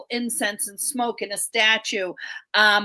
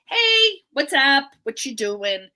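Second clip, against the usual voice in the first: casual greeting; 4 semitones higher, 4 dB louder than usual. Retold or imitated. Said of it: "It's not like".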